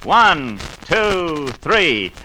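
put-on upbeat kids' radio host; bright, eager voice rallying the children; cheery 1950s educational film.

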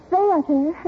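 THEATER in affected actressy diction; put-on grand pronunciation of THEATER; affected stage diction. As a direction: say "Theater" like a pretentious drama student. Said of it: "stop talking like that".

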